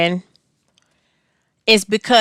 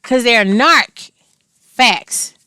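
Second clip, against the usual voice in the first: irritated; 3 semitones higher, 4 dB louder, much slower than usual. Real, not acted. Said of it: "Can you tell I'm a bit irritated?".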